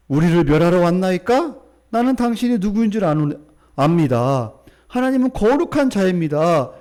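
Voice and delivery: loud, projected Bible reading; scripture reading. A narrator's reading. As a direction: read it out firmly to the congregation. Reads scripture aloud.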